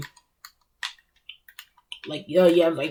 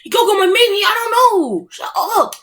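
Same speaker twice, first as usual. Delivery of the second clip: higher, laughing mock of an obsessed fan; 7 semitones higher, 4 dB louder than usual. Mocking DBZ fans who keep asking about Goku, laughing parody.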